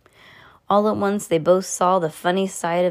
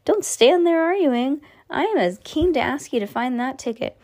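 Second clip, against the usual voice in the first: put-on excited old man; 7 semitones higher than usual. A narrator's reading. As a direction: burst out keen to send him. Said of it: "The old man excitedly".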